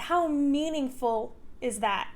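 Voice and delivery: holding back tears; teary. Real, not acted. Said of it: "sorry, I'm getting teary".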